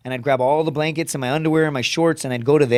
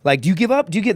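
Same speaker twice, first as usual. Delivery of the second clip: drill instructor taunt; 4 semitones higher than usual. Retold or imitated. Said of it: "they're like".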